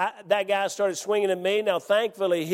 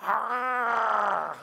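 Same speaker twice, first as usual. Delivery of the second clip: retold growl; 7 semitones higher than usual. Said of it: "He started growling at me".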